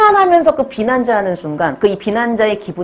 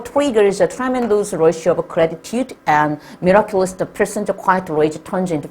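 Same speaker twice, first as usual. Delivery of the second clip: slow text reading; 2 semitones lower, much slower than usual. Acted. Reads English passage slowly.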